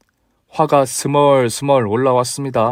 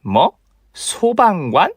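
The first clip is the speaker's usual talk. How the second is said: shocked; 6 semitones higher, much slower than usual. Acted. Mother shocked at job.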